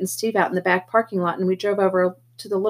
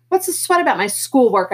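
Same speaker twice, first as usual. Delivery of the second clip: put-on louder, higher frustrated teen shout; snapping back in a raised voice; 4 semitones higher, 3 dB louder than usual. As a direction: yell back at the big brother. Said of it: "I finally shouted".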